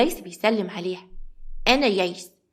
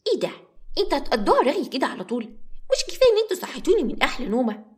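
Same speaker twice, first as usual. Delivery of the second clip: put-on little girl voice; 4 semitones higher than usual.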